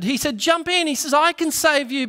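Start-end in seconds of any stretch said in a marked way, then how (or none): 0.4-0.9 high, loud call from the motorboat; shouting. Retold or imitated. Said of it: "the fellow in the motorboat shouted". 1.1-2.1 high, loud call from the motorboat; shouting. Retold or imitated. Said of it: "the fellow in the motorboat shouted".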